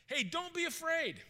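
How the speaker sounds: high, slow, easy reassurance; acted reassurance. Elisha to his frightened servant, slowly reassuring. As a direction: ease someone's fear with a drawn-out lift.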